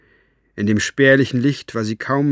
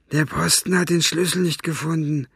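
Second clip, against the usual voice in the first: annoyed reply; 6 semitones higher than usual. A narrator's reading. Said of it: "erwiderte Buster ärgerlich".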